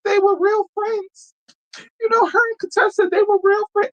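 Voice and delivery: high, put-on mocking voice; shrill-free high mimicry of someone defending a friend. Mocking a guest who defends her friend, high put-on voice.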